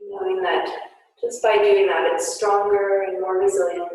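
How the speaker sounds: guided yoga instruction. Acted. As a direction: gently guide the class through poses. Guided yoga class cues.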